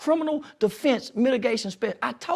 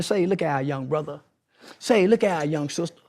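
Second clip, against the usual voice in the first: preachy outreach voice; 4 semitones lower than usual. Retold or imitated. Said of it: "They don't relate to that".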